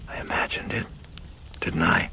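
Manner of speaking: muttered to self. Acted. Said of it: "Karras muttering to himself".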